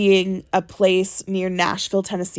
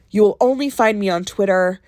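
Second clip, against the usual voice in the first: whispering. Pretend. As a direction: breathe it out with no voice. Whispering Blurryface's reply.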